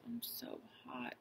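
put-on weak, hushed mumble of a sick boy; mumbled. A narrator's reading. Sick boy in bed to his parents, feverish whispered mumble. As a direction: feverish boy barely getting it out. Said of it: "he mumbled".

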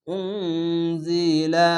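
উনজিলা with the ন blurred into a nasal hum before জ; hidden nasal ikhfa. Shown as a demonstration. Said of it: "এখানে ইকফা গুন্না". (উনজিলা ইখফা গুন্নাসহ)

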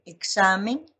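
"examen" with weight on "xa", rising at the end; stress on penultimate syllable. Shown as a demonstration. Teacher asking students to observe, "examen" stressed on "xa". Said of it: "la elevación de la voz, observen".

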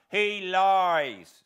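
loud, high forceful denial; fierce. Acted. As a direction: spit the accusation back fiercely. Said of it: "with fierce energy".

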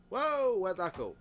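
loud, high startled cry; surprised. Real, not acted. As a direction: jolt at the sudden vanishing. Something suddenly vanishes.

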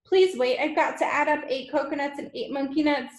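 flustered, high-pitched pleading; Wilfred. A narrator's reading. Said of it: "Poor Wilfred was properly flustered".

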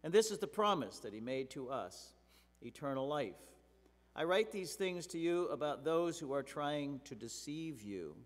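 loud, forceful Bible reading; scripture reading. Acted. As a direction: proclaim each verse to the congregation. Reads scripture passage aloud.

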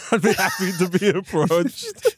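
mocking imitation. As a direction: tease him by echoing his words. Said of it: "just the way you said approached".

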